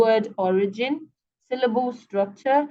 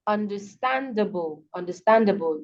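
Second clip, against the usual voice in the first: underSTANDable, STAND stronger than the ending; stress before suffix. Shown as a demonstration. Teacher illustrating the suffix rule, STAND in understandable emphasized. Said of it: "primary stress usually falls on the syllable before".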